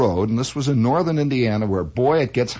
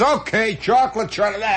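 exasperated; 7 semitones higher than usual. Retold or imitated. Giving in to screaming kid.

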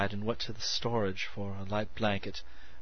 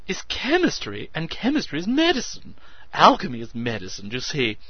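grand excited oration; orating; 6 semitones higher, 8 dB louder than usual. A narrator's reading. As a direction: declaim like an orator. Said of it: "he orated".

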